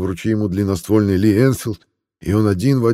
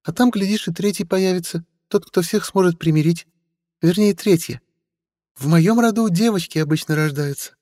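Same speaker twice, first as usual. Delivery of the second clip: put-on high, sly young woman; young woman's voice; 12 semitones higher than usual. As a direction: tease with sly charm. Stella continues teasing.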